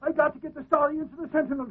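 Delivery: loud, eager goofy gush; dopey cartoon bellow. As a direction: rush to call the story in. Excited reporter rushes to phone.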